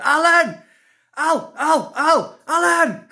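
high, loud mock park shout; shouting for dog. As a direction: yell a dog's name across the park, repeatedly. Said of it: "going in the park shouting".

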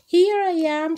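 high, loud call into the wind. A narrator's reading. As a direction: call out to be found. Lost child calls to family.

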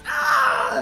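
very high, loud pained scream; awful scream. Acted. Burning enemy screaming as light rends him. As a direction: shriek as light cuts you apart. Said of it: "awful scream".

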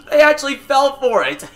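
loud, high-pitched cackling laugh into words; gleeful laughing. Acted. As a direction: laugh hard at the friends you fooled. Prankster laughs at fooled friends.

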